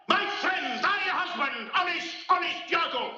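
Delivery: bitter insistence. Acted. Othello insisting.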